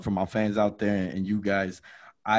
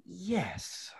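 soft, higher, timid yes; meek answer; 7 semitones higher, 11 dB quieter than usual. Retold or imitated. Friend answering the border agent, soft timid yes. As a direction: answer the officer meekly.

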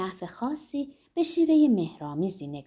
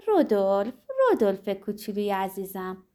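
put-on childlike voice. A narrator's reading.

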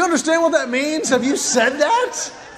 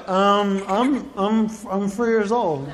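stammering, mock-timid child; hesitant little boy; 4 semitones lower, slower than usual. Three-year-old dared by big kids, hesitant stammer. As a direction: stumble into it like a daunted toddler.

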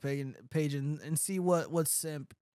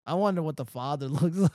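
laughing. Real, not acted. Repeats joke, laughing.

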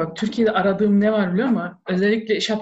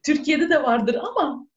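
laughing; 7 semitones higher, slower than usual. Real, not acted. Laughs while making an ironic point.

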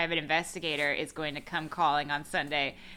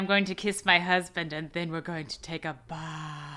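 breathy film heroine. Retold or imitated. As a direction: imitate a breathy melodrama line, drawing out the last word. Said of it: "So much ... breathy".

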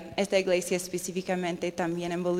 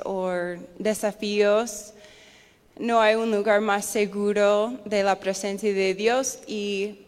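Spanish with an American accent; an English speaker's Spanish, American accent. Real, not acted. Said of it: "mi español ha fallado un poco".

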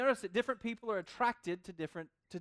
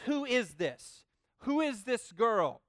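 slow curious Boaz; 3 semitones higher, 4 dB louder, much slower than usual. Retold or imitated. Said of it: "he asks the guys".

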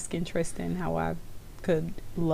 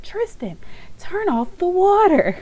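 grandmother snapping high and loud; a raised, sharp grandma voice; sharp call; 13 semitones higher, 5 dB louder, slower than usual. Retold or imitated. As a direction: bark the order at the child from across the room. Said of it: "my mom's like".

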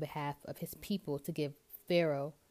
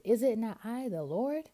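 high, louder, rising mock-indignant question; acted God, pitched up and emphatic; rhetorical question; 5 semitones higher, 5 dB louder than usual. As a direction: ask it as if the answer were obvious. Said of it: "asks him these rhetorical questions".

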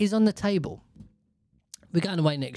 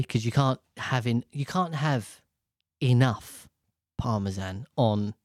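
ordinary talk

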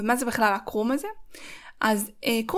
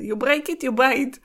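English retake, Israeli accent fixed; corrected English accent; 2 semitones higher, much slower than usual. Shown as a demonstration. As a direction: redo it in cleaner English. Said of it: "יצא לי במבטא ישראלי כזה".

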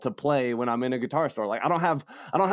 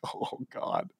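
whispered; 7 dB quieter than usual. Retold or imitated. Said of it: "I'm like".

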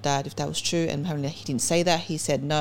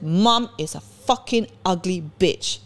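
retold slow insult; much slower than usual. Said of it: "in those words".

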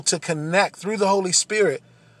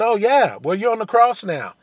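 scornful, louder jeering voice, pitched up; mocking taunt; 4 semitones higher, 3 dB louder than usual. The mocking crowd jeering at Jesus on the cross, scornful and loud. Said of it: "throwing these things back in his face with such disrespect".

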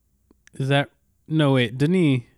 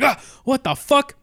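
high-pitched, slow, shocked outburst; hammed-up alarm, drawn out; mock startled cry; 11 semitones higher, 4 dB louder, slower than usual. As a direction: imitate someone jolted awake in bewilderment. Startled waking character acted out.

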